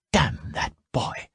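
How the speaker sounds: high, slow voiced thought of Salmataya; inner thought. A narrator's reading. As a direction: seethe it inwardly. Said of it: "she thought".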